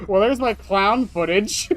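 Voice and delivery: loud, slow, delighted reveal; excited. Real, not acted. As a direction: announce it with glee.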